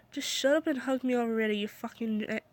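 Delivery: choked-up cracking voice; words breaking with held-back tears. Acted. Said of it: "as my voice cracked".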